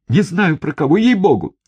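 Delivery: frightened plea. A narrator's reading. Terrified prisoner swears ignorance.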